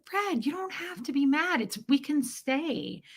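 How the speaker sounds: high, soft reassurance; calm him down gently; wife soothing husband, high and soft; soothing plea. Retold or imitated.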